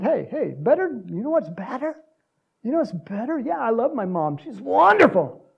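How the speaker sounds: affectionate, lilting reply; loving. Acted. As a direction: coax kindly, lifting the pitch. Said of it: "And Jesus lovingly".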